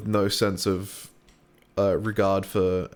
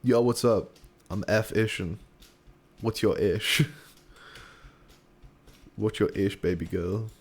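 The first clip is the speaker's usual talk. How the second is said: rapper voice. Acted. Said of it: "sounds like a rapper name".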